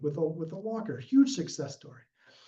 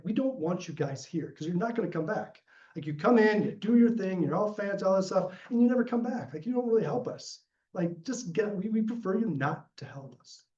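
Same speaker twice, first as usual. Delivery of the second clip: lightly voiced local's complaint, higher; quoting villagers' frustration, a touch higher and firmer; retold complaint; 6 semitones higher than usual. Villagers telling volunteers they never come back, mildly voiced complaint. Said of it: "I've had people tell".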